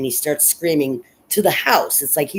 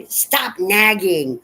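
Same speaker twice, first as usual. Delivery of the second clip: higher, louder, slow irritated snap; snapping; 8 semitones higher, 5 dB louder, much slower than usual. Retold or imitated. Husband snaps at his worried wife, slow angry snap. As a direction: bite her head off. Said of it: "snaps at her".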